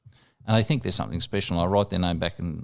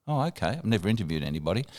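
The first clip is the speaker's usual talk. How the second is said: soft, quick retold reply, trailing down; hesitant acceptance; 5 dB quieter, faster than usual. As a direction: agree softly, then admit inexperience quickly.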